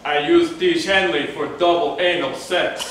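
put-on Eastern European accent. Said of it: "use your Eastern European accent on this one".

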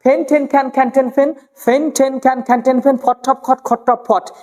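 ফেন, ঠেন, খ্যান in a quick even chant; aspirated drill. Shown as a demonstration. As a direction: puff air on each ফ, ঠ and খ in ফেন, ঠেন, খ্যান. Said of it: "আগের ক্লাসে একটা করেছিলাম".

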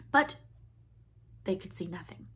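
hushed narration; whispering. A narrator's reading. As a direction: whisper it tensely. Unvoiced whisper.

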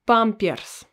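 Pampers, the Russian way. Shown as a demonstration. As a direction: model Pampers slowly for learners. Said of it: "we say Pampers".

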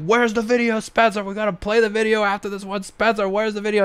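high-pitched mock yelling. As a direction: badger the director in a high shouting voice. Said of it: "He's, like, yelling at him".

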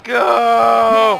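shout. Real, not acted. Final push.

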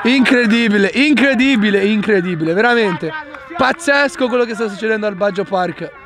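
excited play-by-play over the errors; breathless italian goal commentary. Real, not acted. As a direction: call the action live and amazed. Commentates two goalkeeper errors. (telecronaca concitata)

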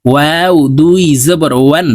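ওয়াও and ওয়ান with lips rounded, a gap in the middle. Shown as a demonstration. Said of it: "ঠোঁট গোল করে উচ্চারণ করতে হবে". (ঠোঁট গোল করে ওয়াও উচ্চারণ)

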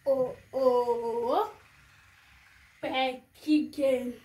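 mild shouted chant. Shown as a demonstration. Teaching viewers the dance call, mild shout. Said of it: "Just shout".

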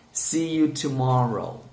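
"See you tomorrow" slowly, word by word; careful slow "See you tomorrow"; slow model phrase. Shown as a demonstration. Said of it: "One more time".

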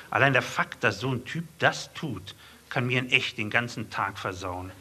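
a hint of sulky poet reading his sonnet; poem recitation. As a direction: deliver the rant in strict verse rhythm.

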